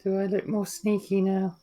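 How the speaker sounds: dry, understated deadpan question. Acted. Muddy character asks Firion, deadpan. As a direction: ask it completely straight. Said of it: "She says very deadpan to Firion".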